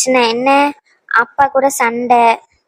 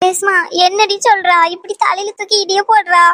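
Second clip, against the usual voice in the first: high-pitched, dismayed mother; high voice of a shocked mother; alarmed mother; 6 semitones higher than usual. Acted. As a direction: cry out in dismay at the daughter, pitched up. Mother reacts to shocking news.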